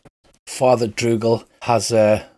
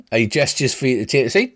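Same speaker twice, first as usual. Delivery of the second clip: ordinary talk, nothing marked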